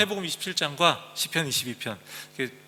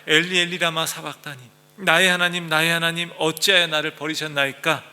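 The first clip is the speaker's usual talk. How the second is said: louder, pleading outcry; anguished cry; 2 semitones higher, 6 dB louder than usual. Acted. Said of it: "그 부르짖는 그 외침". (부르짖는 외침)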